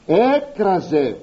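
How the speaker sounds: «έκραζε» stretched slowly and leaned on; «έκραζε» slow and deliberate; slow emphasis. Shown as a demonstration. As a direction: draw out «έκραζε» to show its weight. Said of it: "Κατόπιν λέγει".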